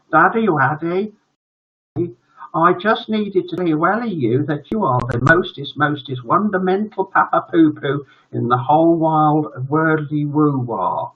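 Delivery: put-on high baby-talk boy voice; gushing little son. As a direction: gush sweetly to an adored daddy.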